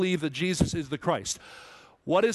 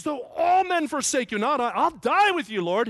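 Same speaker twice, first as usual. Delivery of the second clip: loud, high-pitched impassioned vow; fervent Peter; 11 semitones higher, 6 dB louder than usual. Acted. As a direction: act out Peter swearing loyalty, voice raised high. Peter's fervent vow to Jesus, acted out.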